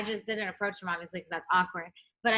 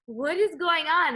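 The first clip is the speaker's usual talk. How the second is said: shocked brother; 8 semitones higher, 6 dB louder than usual. Retold or imitated. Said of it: "he's like".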